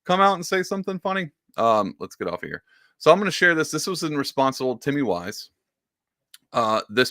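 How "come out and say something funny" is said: hammed-up villain plan; mock Trump scheme voice. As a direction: gloat like a cartoon schemer. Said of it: "He's like".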